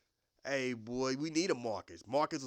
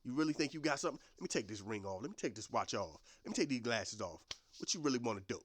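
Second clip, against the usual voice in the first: low, quiet menace; teacher taunts kid while taking off ring; teacher squaring up; 4 semitones lower, 4 dB quieter, faster than usual. Retold or imitated. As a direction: calmly dare the kid to fight. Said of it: "rolled the sleeves up".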